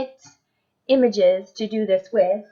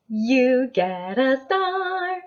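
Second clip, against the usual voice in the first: excited; 3 semitones higher, much slower than usual. Shown as a demonstration. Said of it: "freak out and be crazy".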